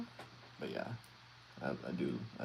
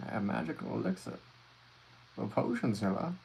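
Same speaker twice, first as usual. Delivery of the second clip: snake oil salesman; 4 dB louder than usual. Pretend. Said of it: "the snake oil salesman".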